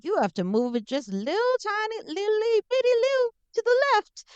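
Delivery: finicky overbearing mother, high and insistent; Ella's mom impression. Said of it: "that's exactly how her mom talks".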